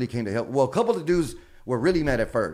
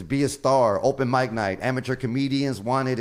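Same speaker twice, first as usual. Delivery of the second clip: ad read; 4 dB louder than usual. Retold or imitated. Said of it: "It says".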